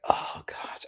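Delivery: breathy whisper to herself; whispered oh gosh. Retold or imitated. Before the climb, whispering nervously to herself. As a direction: whisper it, bracing for what's next.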